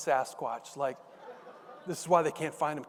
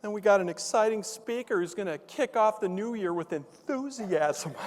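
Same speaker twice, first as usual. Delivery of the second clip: higher-pitched imitation of an official announcing; superintendent; 5 semitones higher than usual. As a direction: play a school chief addressing the staff. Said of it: "So the superintendent, he gets up".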